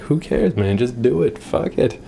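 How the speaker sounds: high, breezy who-cares voice; carefree body voice. Pretend. Voicing his body telling his brain to relax, a breezy high shrug. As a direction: let the body shrug it all off.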